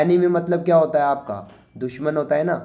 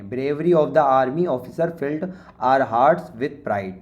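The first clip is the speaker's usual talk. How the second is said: slow, careful reading of the answer; slow dictation; much slower than usual. Shown as a demonstration. Teacher dictating the answer sentence slowly to students. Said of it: "reading the answer sentence slowly".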